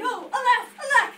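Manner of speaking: very loud, high melodramatic wail; hammed-up shouted lament; crying out. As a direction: cry out in grand despair. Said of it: "The prince cried".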